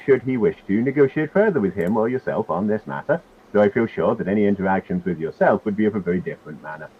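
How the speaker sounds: lightly voiced character reading out a formal letter; Hamus. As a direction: read the letter lightly in character, with a lilting, varying pitch. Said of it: "I can read it in Hamus's voice".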